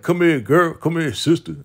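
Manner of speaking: high, loud playful imitation of an uncle; Jerome. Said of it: "You know how he talk".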